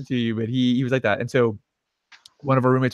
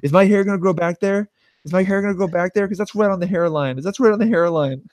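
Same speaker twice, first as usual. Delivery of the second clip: higher, fretful repeated questions; mock worry; 6 semitones higher than usual. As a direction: play up vain panic while bleeding. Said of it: "the entire time I was like".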